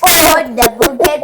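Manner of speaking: mock British accent. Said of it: "in a British accent".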